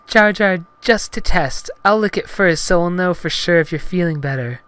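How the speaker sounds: high, loud falsetto heroine; Padme. Acted. Heroine offers to lick banana first, high loud falsetto. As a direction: justify it in put-on falsetto.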